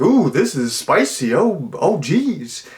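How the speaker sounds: high, fussy mock dad; square dad. Vanilla dad at dinner finding taco salad spicy, fussy high mock. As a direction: play the bland dad fanning his mouth at mild spice. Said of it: "the dad's like".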